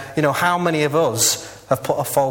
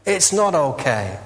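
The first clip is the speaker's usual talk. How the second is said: mock scream; 2 semitones higher, much slower than usual. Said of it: "would scream back".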